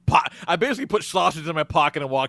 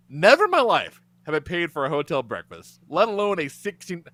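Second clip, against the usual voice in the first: normal talking voice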